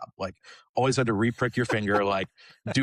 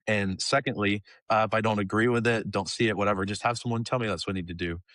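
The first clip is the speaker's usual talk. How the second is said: a grudging, offhand prayer in his own voice; half-hearted prayer. Retold or imitated. Bargaining with God while not really meaning it, a little grudging. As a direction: pray like you don't want an answer. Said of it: "I gave a very half-hearted prayer to God".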